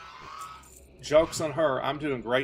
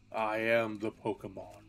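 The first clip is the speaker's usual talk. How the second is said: mock-menacing villain speech, only a hint of Bane; Bane impression; 3 semitones lower, 4 dB quieter than usual. Streamer quoting Bane to chat, mild villain voice. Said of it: "This is my Bane impression".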